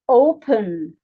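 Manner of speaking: "Open" with a strong "O", falling on "pen"; stress on first syllable. Shown as a demonstration. Teacher showing learners where stress sits, stress on "O" in "Open". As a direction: hit the "O" of "Open". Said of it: "The stress here is on the first syllable".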